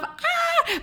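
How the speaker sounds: sudden high-pitched excited squeal. Real, not acted. Reacting to her own outburst with a high squeal. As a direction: let out a shrill little yelp. Sound after the tell-off.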